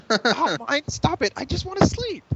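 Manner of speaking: very high, whining sleepy pony; whiny voice. Acted. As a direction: whine to be left alone. Rainbow's whiny line.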